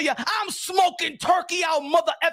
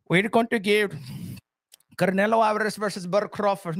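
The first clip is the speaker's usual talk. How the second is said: mock announcement; 6 semitones lower than usual. Imitating Turkey Al Sheikh's announcement.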